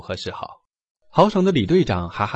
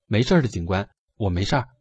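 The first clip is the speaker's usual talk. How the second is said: muffled voice; 3 semitones lower, faster than usual. Acted. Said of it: "嗡声回答".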